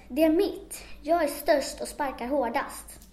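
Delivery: shouting over each other about a prize; squabbling trolls shouting. Acted. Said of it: "Det hörs skrik under golvet".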